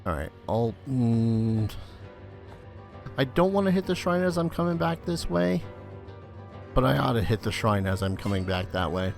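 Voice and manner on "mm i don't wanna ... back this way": usual speaking voice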